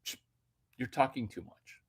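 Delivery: whispered shh, very soft; shushing whisper. Retold or imitated. Quoting the woman shushing him, soft whisper. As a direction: hush him like a librarian. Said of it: "if you say".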